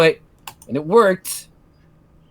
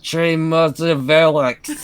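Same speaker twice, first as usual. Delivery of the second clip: bad French; 2 semitones higher than usual. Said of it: "bad French makes your French look better".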